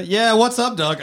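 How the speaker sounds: lightly voiced eager buddy, pitched high; acting out an eager buddy. Imagined co-star answering his new pal, lightly acted and high. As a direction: play the keen pal, voice jumping up. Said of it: "sitting around there being like".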